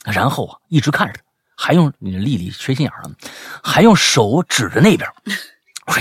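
animated, high-pitched storytelling, building suspense; dramatic story reading. Acted. Host reading a listener's scary night-chase story, dramatic and animated. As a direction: read the chase like a thriller.

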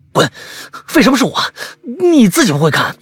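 又高又响地嚷着推脱; 吓急了冲师弟吼; 慌张大喊. Acted. 师兄惊慌推脱. (师兄害怕地冲小白大声推脱)

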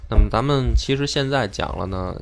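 ordinary talk, nothing marked

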